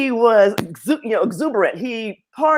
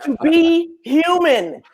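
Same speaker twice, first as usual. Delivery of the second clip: laughing; 5 semitones higher, slower than usual. Real, not acted. Laughing about Black mediocrity.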